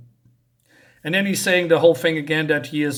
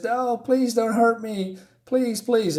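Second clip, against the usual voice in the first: higher, slow mock pleading; scared and crying; 7 semitones higher, slower than usual. Reviewer voices the frightened man begging Pierrot, mock scared and tearful. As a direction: retell a frightened plea in a raised, drawn-out voice. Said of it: "he's scared and crying".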